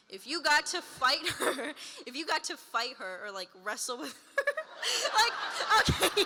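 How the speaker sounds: can't keep a straight face asking; giggling question. Real, not acted. Fan asks about fighting Donna, giggling.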